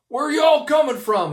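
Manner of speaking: high, loud holler across the road; yelled across the street. Retold or imitated. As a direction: call it out over the street. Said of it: "he yelled across the street".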